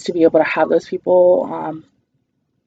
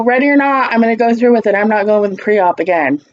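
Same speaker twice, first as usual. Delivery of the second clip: determined; 3 semitones higher than usual. Retold or imitated. Retold determined reply.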